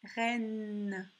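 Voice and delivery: "Reine" with a lengthened n; slow teaching "Reine"; stressed N sound. Shown as a demonstration. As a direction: let the n ring at the end of "Reine". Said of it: "tu entends le son N".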